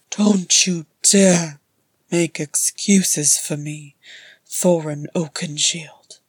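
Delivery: loud, slow, self-hating rasp; harsh, biting rasp. Acted. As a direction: spit it out in bitter contempt. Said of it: "he rasped, ... harsh and biting".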